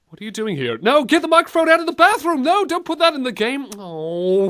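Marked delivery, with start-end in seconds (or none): 0.8-3.7 higher, louder and fast; flustered yelling at an intruder; mock panic. Chasing someone out of bathroom.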